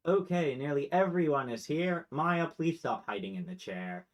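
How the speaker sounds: lightly voiced parent addressing the room; calling to order. Parent telling hidden Maya to come out, calling to order. Queen calls gathered family to order.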